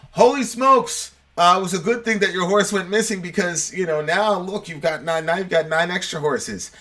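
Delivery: high, thrilled villagers cheering the farmer; excited villagers. Retold or imitated. Villagers congratulating the farmer on his horses, high and excited. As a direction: pitch it up, delighted at the news.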